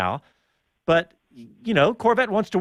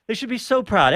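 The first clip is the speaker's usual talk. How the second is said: higher, sing-song repeat of the praise; same line again, lifted higher in mockery; mock commentators; 6 semitones higher than usual. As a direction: parrot the pundits, pitched up. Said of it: "everybody kept saying".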